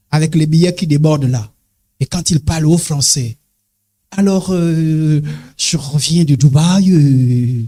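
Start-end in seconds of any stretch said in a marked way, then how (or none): 4.2-7.6 low, slow boastful drawl; mock the flashy rich guy bragging; hammed-up low show-off voice; show-off playboy. Mocks boastful rich boyfriend.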